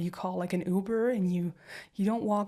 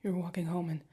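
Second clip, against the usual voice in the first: softer whisper, swallowing anger; whispered coaxing to partner; tense whisper; 5 dB quieter than usual. Acted. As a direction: keep it hushed and steady. Coaxing partner to tell story.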